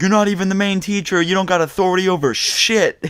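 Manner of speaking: high-pitched indignant mock yell; retold yell. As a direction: holler it back like an outraged kid. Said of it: "I actually yelled".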